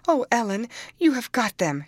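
put-on girl pleading with her nurse; dismayed. A narrator's reading.

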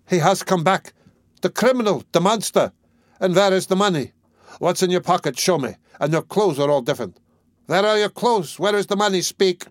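high, shrill, furious accusations; wife berating drunken husband for the money, frenzied; frenzied tirade. A narrator's reading. Hurl every question at him. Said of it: "she cried out in a frenzy".

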